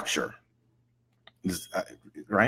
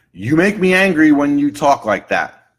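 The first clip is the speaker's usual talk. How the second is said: higher, louder client accusation; acted angry complaint; 4 semitones higher, 5 dB louder than usual. Client blames someone for how they talk, mock angry. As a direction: play a client blaming someone, worked up.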